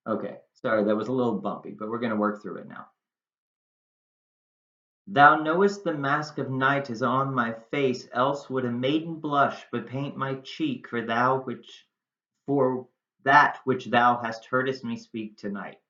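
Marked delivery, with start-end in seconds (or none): 5.1-15.8 measured Shakespeare reading, phrase by phrase; teacher reciting a Shakespeare monologue; monologue read-aloud. Acted. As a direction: read Juliet's verse aloud, pausing between phrases. Rereads monologue lines.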